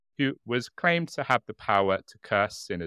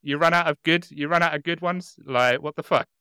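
loud indignant saint complaint; complaining saint; 5 semitones higher, 5 dB louder than usual. Pretend. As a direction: moan like a cheated saint. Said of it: "I would be like".

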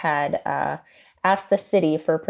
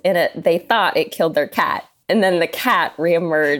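stifled giggles. Real, not acted. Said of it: "You're saying this way too happy".

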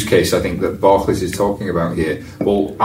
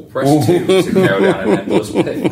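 slow, high mock phone menu; hammed-up automated menu voice; robotic IVR voice; 10 semitones higher, slower than usual. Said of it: "that robotic voice".

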